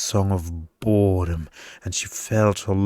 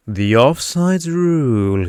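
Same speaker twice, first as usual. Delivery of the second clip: excited; 5 semitones higher, 5 dB louder than usual. A narrator's reading. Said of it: "a twinkle of excitement in his".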